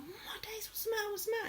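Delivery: high, hushed fretting; soft, high-pitched fussing; retold alarmed concern. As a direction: imitate a friend waking up worried. Acts friend waking to find her crying.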